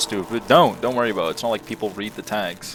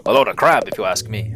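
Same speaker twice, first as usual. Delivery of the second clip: grumpy retort; 5 dB louder than usual. Acted. Reading a grumpy crab's line.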